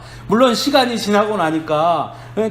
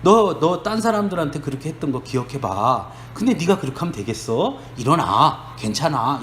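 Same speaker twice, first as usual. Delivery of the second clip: earnest admonition; 4 semitones lower than usual. Retold or imitated. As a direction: admonish sincerely, then lift him up. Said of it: "진지하게".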